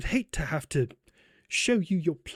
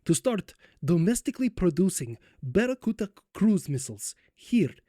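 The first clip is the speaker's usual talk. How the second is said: put-on light Polish accent for a statesman; 4 semitones higher than usual. Poland announcing missile production, in a light Polish accent. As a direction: keep a light Polish accent on every word. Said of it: "oh, that's hard to say in this accent".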